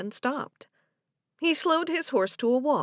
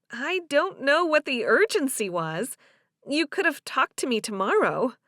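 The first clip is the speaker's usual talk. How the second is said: a hint of a puzzled woman, pitched higher; lightly voiced Delia; 5 semitones higher, 3 dB louder than usual. Delia questions Joe's urgency, mildly puzzled and higher. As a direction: lightly play her questioning the rush.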